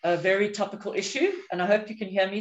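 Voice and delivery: muffled behind a face mask; speaking through a mask. Real, not acted. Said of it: "Sometimes people can't hear me through my mask".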